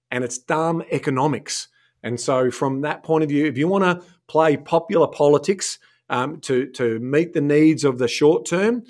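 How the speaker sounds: lecturing the politicians, fired up; talking to politician voice. Real, not acted. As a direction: speak straight to the government. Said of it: "you had your talking to politician voice on at the end there".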